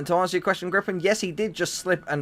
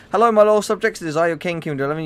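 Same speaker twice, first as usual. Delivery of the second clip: grand royal greeting, louder; warm regal boom; 2 semitones higher, 4 dB louder, faster than usual. Acted. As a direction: boom it out like a king. Regal channel intro as King.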